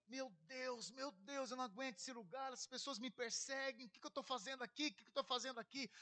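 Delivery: softly pleading, almost to himself; a hushed, tired lament; quiet despairing prayer. Retold or imitated. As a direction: murmur a weary complaint to God. Desperate private prayer retold.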